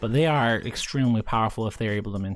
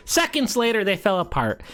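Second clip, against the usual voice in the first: meme narrator; 7 semitones higher than usual. Acted. Mocking his own jinx on Austria, mock announcer voice. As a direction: announce the downfall like a meme title card.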